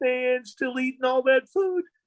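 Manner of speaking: very high-pitched cartoon-style voice. Talking about a cartoon voice and demonstrating it, Shaggy Rogers voice. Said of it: "when you're doing the sound like this".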